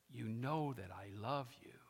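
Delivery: soft, low, humbled confession; mildly acted brokenness, said softly; Peter, broken. Peter telling Jesus he loves him, broken. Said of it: "He was broken".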